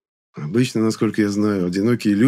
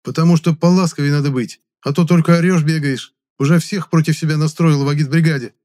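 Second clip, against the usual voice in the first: heated scolding; 8 semitones higher, 6 dB louder than usual. A narrator's reading. Heated quarrel.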